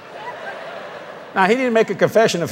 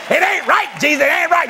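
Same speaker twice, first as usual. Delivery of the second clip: mock whine; 10 semitones higher than usual. Mocking complaint to Jesus.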